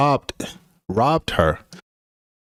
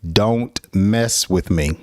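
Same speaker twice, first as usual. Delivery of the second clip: slow firm warning; slower than usual. Shown as a demonstration. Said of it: "express your anger is by saying".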